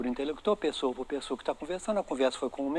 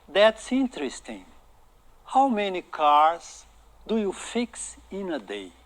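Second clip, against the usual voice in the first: slow pronunciation model; 3 dB louder, slower than usual. Shown as a demonstration. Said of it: "vou repetir outra vez a pronúncia".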